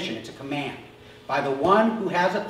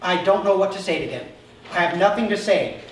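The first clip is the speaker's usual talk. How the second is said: mock desperate prayer. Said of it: "I go".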